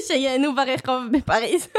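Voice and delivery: slow, laughing through words. Real, not acted. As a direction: giggle the punchline slowly. Laughing punchline.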